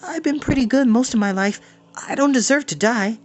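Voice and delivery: high, fast, out-of-breath plea; panting and tearful. A narrator's reading. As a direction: gasp it out while running, close to tears. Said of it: "panting, leaping, tears on his cheeks".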